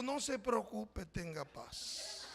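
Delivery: slow, soft, fading reassurance; calm her down gently; reassuring. Retold or imitated. Pastor reassuring donor lady. (tranquilizando a la hermana, lento y suave)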